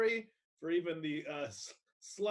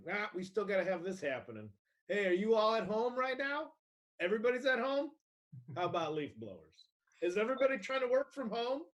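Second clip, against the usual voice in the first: higher, pushy mock-justifier voice; sarcastic homeowner's protest, pitched up; mocking justification; 5 semitones higher than usual. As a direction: plead the absurd case in a raised, incredulous pitch. Voicing the justification for leaf blowers.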